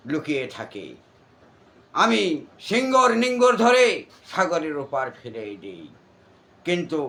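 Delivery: booming stage demon voice, ranting; jatra demon role. Acted. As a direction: declaim like a folk-theatre demon. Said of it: "এটা সাপুরের মেয়ে যাত্রা অভিনয় দানবের". (যাত্রার দানবের কণ্ঠে অভিনয়)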